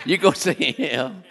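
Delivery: high, loud, slow through laughter; laughing. Real, not acted. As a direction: laugh the words out, drawn out. Laughing on after his inheritance joke.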